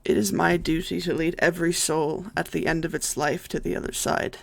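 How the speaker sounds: measured, solemn monologue with pauses between phrases; understated gravity, evenly paced; lightly voiced solemn death saint. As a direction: lightly play an ancient guide of souls.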